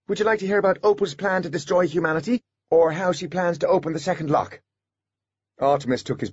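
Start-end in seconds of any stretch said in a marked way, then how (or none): 0.1-4.6 put-on child voice. A narrator's reading. Miles child voice.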